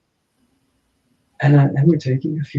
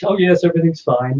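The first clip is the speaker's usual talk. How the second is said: higher, mock-English reassurance; lightly parodied polite all's well; English brush-off; 4 semitones higher, 4 dB louder than usual. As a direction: play down trouble in a very English way. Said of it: "living in England, we're very, you know".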